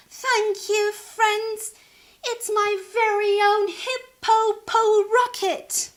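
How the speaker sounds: high, loud, thrilled hippo voice; proud of her new rocket; excited thanks. Acted. Sheila thanks her friends.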